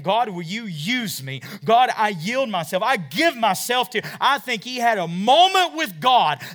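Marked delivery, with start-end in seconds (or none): 0.0-4.1 surrendering prayer. Acted. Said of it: "He was saying".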